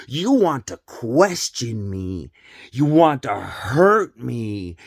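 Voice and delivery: slow, insistent mock mother, lightly voiced; a hint of an accusing mom, drawn out; acting the mother. Mother scolding her questioning son, slow mock accusation. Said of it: "that little skit".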